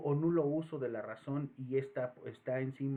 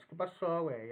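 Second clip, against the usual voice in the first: higher posh Mexico City fresa voice; fresa accent; 3 semitones higher than usual. Retold or imitated. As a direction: imitate a fresa kid. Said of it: "Otros quieren hablar fresa". (acento fresa)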